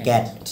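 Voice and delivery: "ক্যাট" with a wide, open ae; open ae sound. Shown as a demonstration. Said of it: "মুখটা বড় করে".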